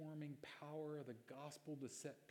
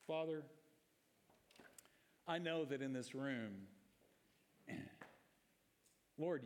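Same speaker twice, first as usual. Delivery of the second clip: closing prayer. Acted.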